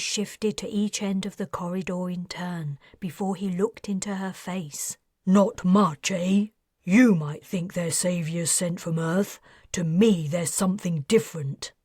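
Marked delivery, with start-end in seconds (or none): 5.2-11.7 a hint of a nervous ex-financier; defensive man voice. Aubreo voiced in dialogue.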